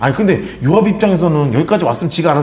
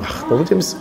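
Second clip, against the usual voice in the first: ordinary talk, nothing marked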